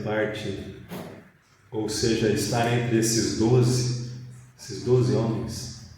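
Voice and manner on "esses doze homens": ordinary talk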